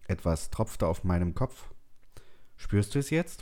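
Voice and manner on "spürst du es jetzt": conspiratorial. A narrator's reading. Woman asks Frank whether he feels the rain, conspiratorial. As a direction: ask as if sharing a secret. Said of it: "fragte sie in verschwörerischem Ton".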